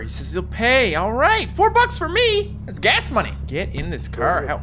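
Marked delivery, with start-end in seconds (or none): 0.9-3.3 mock delight. Hitchhiker pays.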